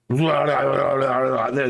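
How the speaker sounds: drawn-out mock hobo noise; hammed-up hobo vocalizing; hobo impression. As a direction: do your best silly hobo. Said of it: "that's my best hobo impression".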